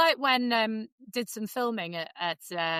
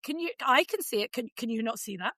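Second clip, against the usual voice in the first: mock exasperated rant; 3 semitones higher than usual. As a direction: rant at a proud parent. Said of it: "And you're like".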